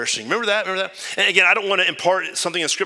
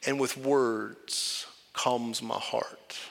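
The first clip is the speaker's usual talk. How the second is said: calm Jesus; 7 dB quieter, much slower than usual. Retold or imitated. Jesus answering the worried preacher, softly and calmly. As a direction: answer gently with a knowing smirk. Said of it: "Jesus just smirks and just says".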